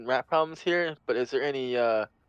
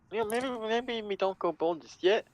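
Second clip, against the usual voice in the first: put-on southern accent. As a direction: slip into a loose Southern accent. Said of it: "I don't know why I'm doing a southern accent right now".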